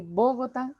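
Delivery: Bogotá wrongly stressed on the opening BO; Bogotá with the weight on its first syllable; misplaced stress on first syllable. Shown as a demonstration.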